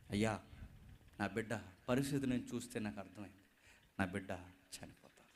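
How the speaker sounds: low, soft, broken mother's lament; grieving widow. Acted. Widow telling the prophet her son will die, grieving softly. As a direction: pour out a starving mother's grief.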